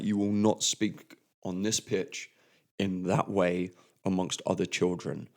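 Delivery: a touch of a stern referee, firm not shouting; stern telling-off. Retold or imitated. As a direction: mildly scold the young player. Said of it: "And I say it very loudly".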